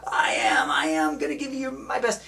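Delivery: strangled, effortful mock gasp; exhausted player straining to answer. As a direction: force it out as if dragging a weight.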